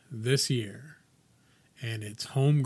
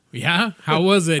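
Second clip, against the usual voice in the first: eager question; 4 semitones higher, 10 dB louder than usual. Retold or imitated. Retold chat with wrestler.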